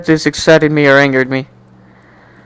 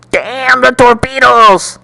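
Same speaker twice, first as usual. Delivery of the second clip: mock resolve; 8 semitones higher, slower than usual. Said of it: "I muttered".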